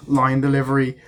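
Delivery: real amused laugh. Real, not acted. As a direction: laugh through the words.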